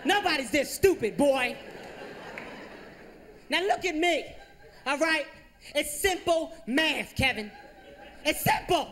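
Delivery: mock-furious mom drilling simple math; frustrated mom yelling. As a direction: yell at Kevin in half-laughing exasperation. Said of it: "She started yelling at me".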